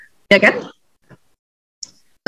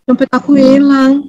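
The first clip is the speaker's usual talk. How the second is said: slow, mildly mournful mock lament; sad; 2 semitones higher, slower than usual. A melancholic losing her wallet, mock sad. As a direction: sigh it out like a let-down melancholic. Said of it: "Ya, dia sedih lah".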